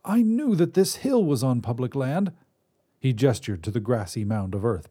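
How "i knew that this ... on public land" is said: put-on higher reedy old man's voice; reedy old wizard. Wizard voice held.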